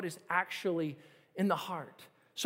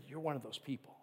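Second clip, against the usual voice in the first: softly retold; 7 semitones lower, 10 dB quieter, faster than usual. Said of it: "He said".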